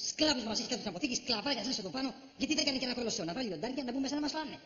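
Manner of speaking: indignant, worked-up tirade; angry ranting. Acted. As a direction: rant about the boss without holding back. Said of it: "Μη φωνάζεις, σε παρακαλώ".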